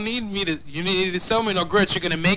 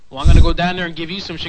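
mock threat; 9 dB louder, faster than usual. Prank caller threatening the clerk.

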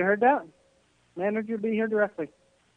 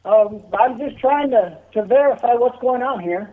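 yelling across the room; 3 semitones higher, 4 dB louder than usual. Real, not acted. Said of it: "Can you not yell across the room?".

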